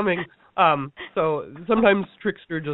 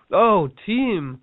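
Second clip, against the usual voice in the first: rallying excitement; 4 semitones higher, slower than usual. Retold or imitated. Speaker rallying the course group, high and excited. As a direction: rouse the team, going high.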